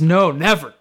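firm, swooping stress on never; emphatic refusal. Acted. Peter refusing to let Jesus wash him, emphatic. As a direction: refuse outright, leaning on the words. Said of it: "is just more emphatic".

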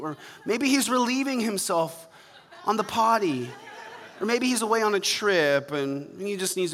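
a lightly voiced, laughing mock of Baal; mocking trash talk. Elijah taunting the prophets of Baal, laughing mockery. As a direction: jeer at the false god with a chuckle. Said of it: "Elijah began mocking them".

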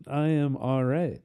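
slow, drawn-out Texan drawl; McConaughey impression. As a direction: stretch it lazily like McConaughey. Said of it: "McConaughey impression".

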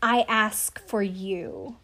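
very slow, hushed, theatrical; mock dramatic climax. Contestant's last plea to her fiancé, very slow mock melodrama. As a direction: let the final line land like a movie ending. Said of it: "that shit was dramatic".

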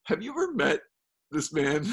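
high, disbelieving question; wife doubting the stranger, rising in disbelief; incredulous wife. Retold or imitated. Wife asking about staying with a stranger, incredulous. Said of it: "my wife was like".

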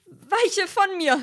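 high, slow, solemn command; mock exorcism. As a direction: ham up a banishing spell. Peter beschwört den Dämon. (feierlich beschwörend, hoch und langsam)

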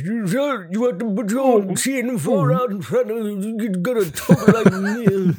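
high, hammed-up proper English accent; mock proper English. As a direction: parody proper English with the chin stuck far out. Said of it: "I guess proper English".

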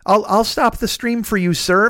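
slow, drawn-out mock deference; mock submissive. Streamer imagining himself backing down to his friend, mock submissive. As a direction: pretend to back down meekly, dragging it out. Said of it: "if I back down and be like".

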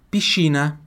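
Piscina whispered, sci as sh; whispered demo. Shown as a demonstration. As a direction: hush out Piscina with a sh. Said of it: "S C I tem som de chi". (Piscina sussurrada com sci como chi)

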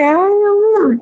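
high, hand-on-chest "Dios mío"; mother-in-law hearing of the twins, shocked; imitating shocked mother-in-law. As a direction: play the mother-in-law clutching her chest. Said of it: "Le hace así en el pecho como que".

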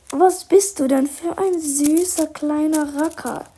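put-on sweet high baby talk to a pet; cooing. Accomplice coos at the little dog in a sugary voice. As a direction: coo it like talking to a puppy.

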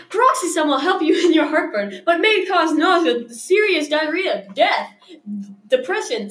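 quick drug commercial read; fast legal disclaimer. Pretend. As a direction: rattle off side effects like an ad. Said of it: "like in a commercial".

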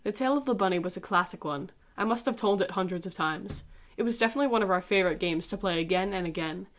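calm narrator reading her own essay; dramatic essay reading. Acted.

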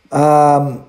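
usual speaking voice

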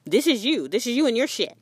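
lightly voiced spirit calling you out; blunt spirit voice. Spirit confronting you about your triggers, bluntly. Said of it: "spirit is, like, literally showing you".

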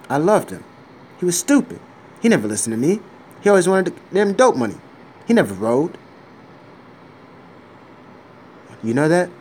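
mob boss monologue. Acted. Mob boss tells John the rules, loud and intense. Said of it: "I'm gonna read the John Gotti script right now".

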